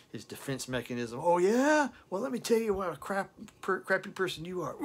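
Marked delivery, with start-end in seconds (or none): 1.2-4.8 high, loud, fast sneering yell; mock angry retort. Singer screaming back at the sister in a fight. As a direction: hurl it back at her in a fight. Acted shouting match.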